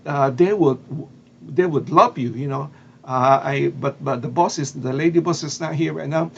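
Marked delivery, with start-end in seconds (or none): 0.0-2.3 mildly excited, louder retold welcome; lightly acted burst of enthusiasm. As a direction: imitate a delighted chef on the phone, a bit louder. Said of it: "she got excited".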